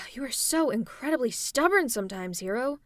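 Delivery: exasperated sigh, then punched words. Acted. Villain scolds a stubborn hero, exasperated. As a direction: lean hard on the words in frustration.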